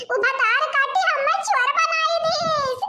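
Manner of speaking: hammed-up sobbing lament, slow; mock wailing. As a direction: wail it with a laughing sob. Wailing after being called thief. (नाटकीय रोते हुए विलाप)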